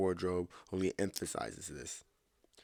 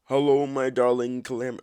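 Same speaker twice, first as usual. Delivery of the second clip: loud, higher greeting as a creepy neckbeard; 5 semitones higher, 10 dB louder than usual. Acted. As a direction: ham up a smarmy neckbeard hello. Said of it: "do the neckbeard voice".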